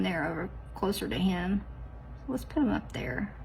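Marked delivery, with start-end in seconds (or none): 2.3-3.3 whispered as she places it; soft unvoiced whisper to herself. Real, not acted. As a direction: hush it while concentrating. Placing sticker carefully.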